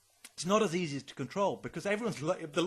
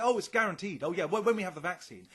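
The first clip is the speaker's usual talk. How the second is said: mock assurance; 3 dB louder than usual. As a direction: imitate people glibly promising a vaccine. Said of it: "They're all talking like this".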